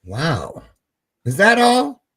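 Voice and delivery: fake-scold her playfully; mock disbelief. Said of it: "I'm kidding".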